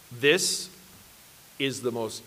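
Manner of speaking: soft, low, dropping away in wonder; hushed awe. Retold or imitated. Newcomer confiding in the brother who invited him, hushed awe. Awestruck confession to his friend.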